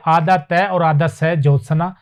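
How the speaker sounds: syllable by syllable, आधा तय और आधा सह ज्योत्सना; careful spelling out. Shown as a demonstration. Teacher to students spelling a word, carefully. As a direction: spell out ज्योत्सना as half त plus स. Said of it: "इस प्रकार से".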